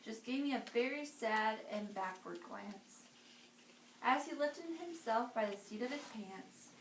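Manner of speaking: put-on lively read-aloud for children; storybook reading. A narrator's reading. Reading to kids, lively storybook voice. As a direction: read it like bedtime story time.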